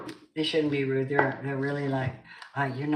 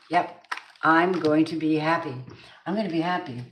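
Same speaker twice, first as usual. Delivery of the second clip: firm, upbeat affirmation; declaring it; 3 dB louder than usual. Shown as a demonstration. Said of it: "If you say it like that".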